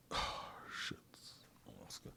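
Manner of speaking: barely audible whispered mutter; whispering to self. Real, not acted. Host looking up a forgotten name, whispering to himself. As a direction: whisper under your breath while searching.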